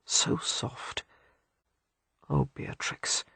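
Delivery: voiceless breathy whisper. Acted. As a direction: barely breathe the words. Lover whispering intimately.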